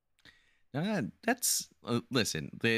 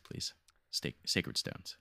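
slow, lower whispered plea; 6 semitones lower, 7 dB quieter, much slower than usual. Real, not acted. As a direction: whisper the title slowly, pleading. Begging for favourite game.

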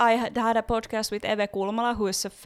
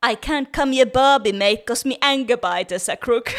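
louder, laughing Australian textbook accent; hammed-up Australian accent, proud of the line; 2 semitones higher, 7 dB louder than usual. Shown as a demonstration. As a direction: recite it like a schoolbook Australian. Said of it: "One more time, please".

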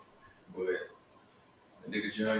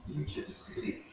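mock disgust; 8 semitones higher, 10 dB quieter, slower than usual. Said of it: "I'm like".

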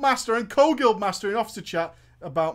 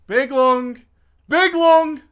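sharp loud call, rising; calling out loudly; 6 semitones higher, 10 dB louder, much slower than usual. Retold or imitated. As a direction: shout his name twice. Calling out to unresponsive player.

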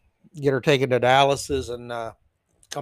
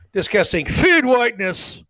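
mocking emphasis; 4 semitones higher, 4 dB louder than usual. Mocks the phrase in reading.

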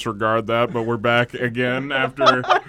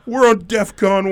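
gasp, then higher, louder and slow; mock panic; 10 semitones higher, 9 dB louder, slower than usual. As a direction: fake alarm at the end of the world.

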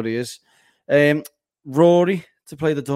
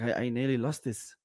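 put-on South African accent; 3 semitones lower, 8 dB quieter than usual. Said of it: "Just trying to do a South African accent".

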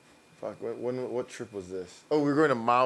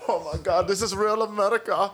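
higher, wide-eyed wonder; awed tourist; 5 semitones higher than usual. Retold or imitated. Tourist marvelling at fast food, lightly voiced awe. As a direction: say it like you've reached the promised land. Tourist amazed at Burger King.

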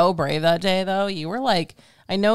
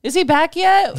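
higher, louder fretting mom voice; imitating anxious mom; 12 semitones higher, 7 dB louder than usual. Retelling his mom's text from the waiting room, mock anxious. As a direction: play his mom, impatient for news.

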